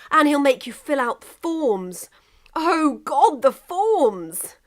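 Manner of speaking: high, loud, frantic pleading; rising despair over the forms; a high, loud panic about paperwork. Acted. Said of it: "England pressed frantically".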